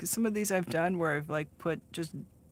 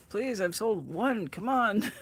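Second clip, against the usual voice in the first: pleading; 4 semitones higher, 4 dB louder, slower than usual. Pretend. Imagined self begging for sales.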